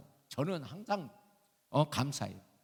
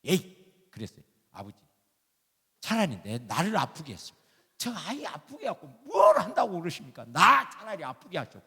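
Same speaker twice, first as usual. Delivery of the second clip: retold protest to God, rising louder midway; exasperated prayer; 4 semitones higher, 5 dB louder than usual. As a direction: plead and argue with God, as if reliving it. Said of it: "기가 막히더라고". (하나님께 따지듯 하소연하는 기도 재연)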